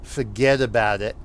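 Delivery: stock Jersey-accent catchphrase. Shown as a demonstration. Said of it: "you'll have your Jersey accent".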